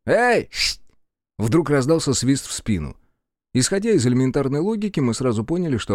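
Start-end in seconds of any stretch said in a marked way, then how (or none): 0.0-0.5 high loud call from behind. Acted. Soldier calls after the group, high and loud. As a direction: hail them from a distance.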